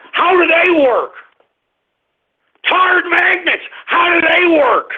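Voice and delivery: high-pitched wailing rant; incredulous yelling. Real, not acted. Host baffled by the magnet nickname, incredulous yelling. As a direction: wail the question at full pitch.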